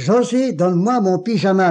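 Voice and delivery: un peu plus fort, insistant; d'une voix plus forte. Retold or imitated. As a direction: appel ferme et insistant. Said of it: "mais d'une voix plus forte". (le malade qui exige son pyjama d'une voix plus forte)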